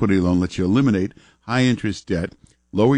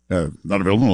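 mock disclaimer mumble; words smeared into a mumble; mumbly voice; 2 semitones lower, much faster than usual. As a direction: mumble it indistinctly like fine print. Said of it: "put on that mumbly voice".

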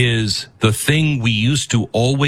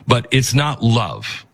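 ordinary talk

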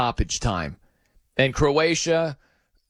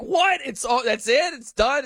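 high, incredulous squeak; can't believe the goal was taken away; stunned disbelief; 8 semitones higher than usual. Retold or imitated. Fans stunned by VAR reversal.

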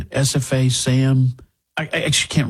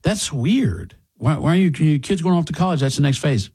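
mock gruff older dad, higher and fast; 4 semitones higher than usual. Dad mocking a parent crying at college drop-off. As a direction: scoff like an old-school father. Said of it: "they'd go".

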